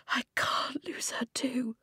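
soft, breath-only despair; hushed, desperate confession; anguished whisper. A narrator's reading. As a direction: whisper it as if close to tears. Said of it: "he whispered".

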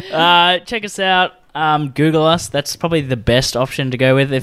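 talking round a mint; sucking a mint while talking; mouth full. Real, not acted. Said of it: "I really wanted to eat this mint".

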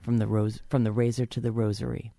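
reading through a head cold; stuffy cold voice. Real, not acted. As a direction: read it with a blocked-up cold voice. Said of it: "My cold is working for me".

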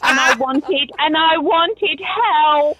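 mock tearful child's plea, slowing and rising at the end; a hint of a sobbing little boy, drawn out; imitating a crying child. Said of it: "burst out crying and said".

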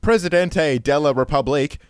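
Presidente de la Republique in a light, faux-French accent; lightly Frenchify Presidente de la Republique; mock French pronunciation. Shown as a demonstration. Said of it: "as I believe it is pronounced".

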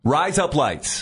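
slow Australian-sounding "razor blades"; mock Australian accent. Shown as a demonstration. Convincing a doubtful cohost, mock Australian accent. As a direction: say it slowly to pass as Australian. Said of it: "Razor blades with an Australian accent".

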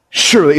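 "Surely" pressed with a falling tune; emphatic surely. Shown as a demonstration. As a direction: lean hard on "Surely". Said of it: "it's emphatic".

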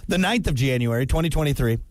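solemn, hungover mock confession; mock formal statement. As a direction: read it like a grudging official statement. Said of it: "God, I am drunk or hungover".

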